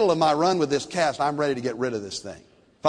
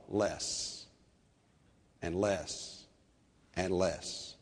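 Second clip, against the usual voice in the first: each "less" softer and softer; fading away; 9 semitones lower, 12 dB quieter, much slower than usual. Shown as a demonstration. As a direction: let the voice shrink with each less.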